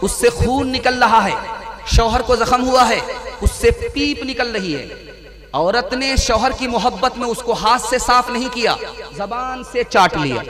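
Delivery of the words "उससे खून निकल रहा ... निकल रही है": words broken by real laughter; amused laugh under the words; laughing while preaching. Real, not acted. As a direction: chuckle through the lines. Preacher laughing at graphic example.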